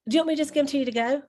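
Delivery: fast, mock snooty offer; quoting the waitress's curt to-go offer. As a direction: rattle it off curtly like the waitress did. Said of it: "like, snooty with me".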